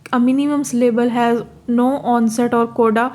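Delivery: very slow, careful reading of the English text; reading the textbook aloud. Shown as a demonstration. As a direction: spell the definition out word by word for students. Reads the English line. (अंग्रेज़ी परिभाषा को बहुत धीरे-धीरे पढ़ना)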